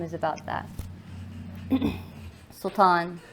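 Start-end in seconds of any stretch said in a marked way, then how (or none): 2.5-3.2 measured, emphatic spoken-word reading; poem recitation. Acted. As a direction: recite with weight and pauses between phrases. Begins reciting next poem.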